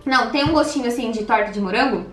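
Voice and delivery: speaking through fingers; finger at lips. Real, not acted. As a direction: hand partly over mouth. Seen 3: Straw stays in cup; fingers touch lips while speaking.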